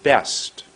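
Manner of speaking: "Best" with a long held vowel; a deliberate, drawn-out "Best"; lengthened word. Shown as a demonstration. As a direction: set the lips, then stretch "Best". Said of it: "I went like this".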